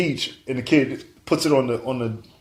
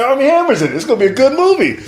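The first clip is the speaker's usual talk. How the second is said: eager, higher and quicker; excited hope; 10 semitones higher, 5 dB louder, faster than usual. Retold or imitated. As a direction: gush like a fan about to be thrilled. Excited hopeful quote about Armie Hammer.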